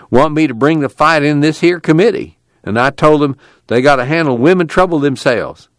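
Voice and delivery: exasperated tubby man. Acted. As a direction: grumble about the fight with mild exasperation.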